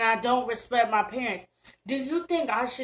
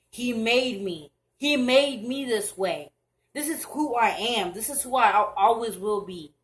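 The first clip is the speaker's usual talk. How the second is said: proud, defiant, slowed and louder; firm defiant declaration; 4 dB louder than usual. Real, not acted. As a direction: stand your ground and say who you are. Defiant reply to hateful texts.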